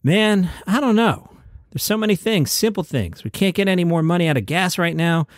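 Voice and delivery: loose, unhurried delivery of a late friend's answer, only hinted at; Ralphie May cadence. Retold or imitated. Host reads a late comedian's interview answer in his lightly mimicked cadence. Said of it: "I'll try and do my cadence here the way he would do it".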